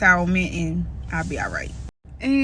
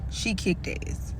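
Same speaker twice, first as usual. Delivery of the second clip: whispered, fierce and tender; 8 dB quieter, slower than usual. Real, not acted. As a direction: breathe it out in a whisper. Grieving, praising her fight.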